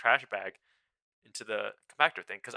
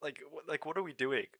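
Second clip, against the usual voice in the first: exasperated scolding; 5 semitones higher than usual. Retold or imitated. Scolding coworker for asking strangers for help, exasperated. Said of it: "I'm like".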